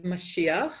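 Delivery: Mashiach said the Hebrew way; Hebrew pronunciation. Shown as a demonstration. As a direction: say Mashiach as in Hebrew, ma-shee-akh. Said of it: "So in English, yes".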